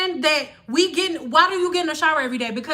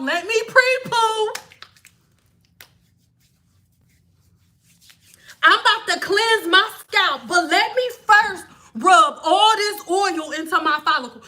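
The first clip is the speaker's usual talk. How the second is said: mocking impression; 2 semitones higher than usual. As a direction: play the silly pre-pooer with a half-laugh. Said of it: "this is how y'all look".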